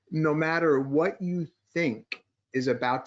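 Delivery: "you think" leaned on, said slowly; stress on you think. Shown as a demonstration. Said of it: "I'm emphasizing the words "you think".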